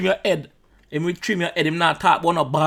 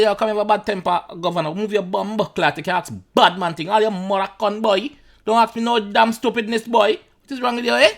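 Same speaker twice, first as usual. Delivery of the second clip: higher-pitched mock Caribbean governor with a Bajan accent; 7 semitones higher than usual. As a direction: put on a Bajan accent, telling off the man. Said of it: "Bajan or Vinci or whatever accent".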